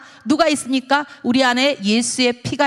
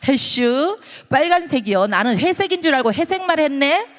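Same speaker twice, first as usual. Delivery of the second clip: higher, lilting Chungcheong surprise; Chungcheong dialect; 4 semitones higher, 3 dB louder than usual. Acted. Spouse realizing they meant different colors, Chungcheong lilt. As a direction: puzzle it over in Chungcheong dialect. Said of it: "여기 충청도는".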